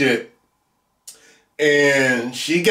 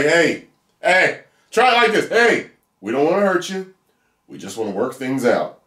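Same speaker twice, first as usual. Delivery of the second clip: non-creepy coaxing; 2 semitones higher than usual. Shown as a demonstration. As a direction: friendly appeal in an open voice. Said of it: "Try that tone".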